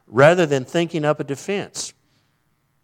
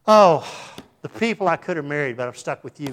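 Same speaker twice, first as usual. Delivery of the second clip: mock resentful wife; 3 dB louder than usual. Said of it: "kind of attitude".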